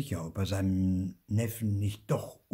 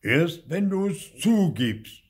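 loud, slow, weighty demand; lightly voiced big old ghost, stern and drawn out; deep-voiced stern ghost; 10 semitones higher, 9 dB louder, slower than usual. A narrator's reading. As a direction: demand a confession slowly and loudly. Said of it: "sagt es mit tiefer Stimme".

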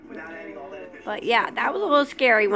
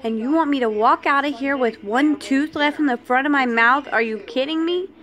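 upset protest. Retold or imitated. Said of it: "I started crying".

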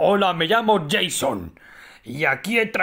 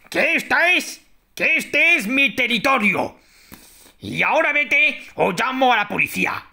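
shouting at trespasser; 4 semitones higher than usual. Pretend. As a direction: bark threats at the intruder. Mother defending her territory.

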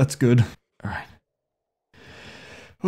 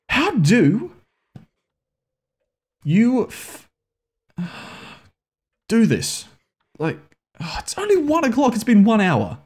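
exasperated whine; 10 semitones higher than usual. Real, not acted. Despairing at failing the level.

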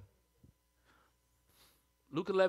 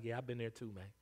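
casual Jesus; 7 semitones lower, 3 dB quieter, faster than usual. Retold or imitated. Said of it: "Jesus on the side is like".

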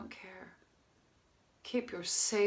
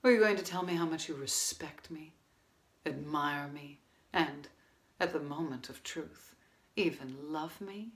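quiet bitterness; 2 semitones lower, 8 dB quieter than usual. Acted. Woman confronts restaurant owner after failed affair, quietly bitter. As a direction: confront him softly, with long pauses.

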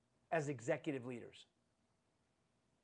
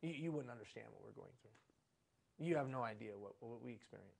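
imitating excuses; 6 semitones lower, 3 dB quieter than usual. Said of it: "Such as".

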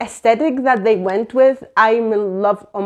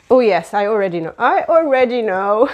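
fast, louder, gleeful; thrilled recognition; excited knowing; 5 dB louder than usual. Real, not acted. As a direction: gloat happily that you know. Excited about theme card.

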